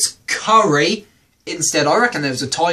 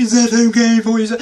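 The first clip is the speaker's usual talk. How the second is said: polite waiter; 5 semitones higher, 6 dB louder, faster than usual. Retold or imitated. Waiter checking on table.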